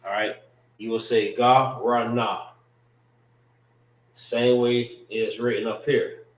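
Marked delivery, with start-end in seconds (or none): 1.3-2.5 "ga, ra, na" as three ah syllables; "ga, ra, na" with a separate final nah; misread letter by letter. Shown as a demonstration. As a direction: sound out GAH, RAH, NAH. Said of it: "it's pronounced in a certain way".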